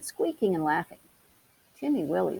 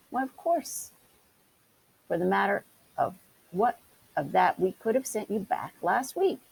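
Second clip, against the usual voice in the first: huffily; 3 semitones higher than usual. Acted. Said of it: "said Johnny rather huffily".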